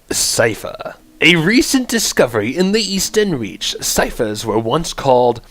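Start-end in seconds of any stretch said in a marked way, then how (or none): 1.2-5.4 measured, theatrical announcer read; lightly grand storybook-style introduction. Acted. Streamer reads out the chanter class lore, announcer voice.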